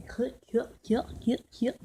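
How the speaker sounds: loud repeated cut, cut; calling cut. Real, not acted. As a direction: shout cut like a director.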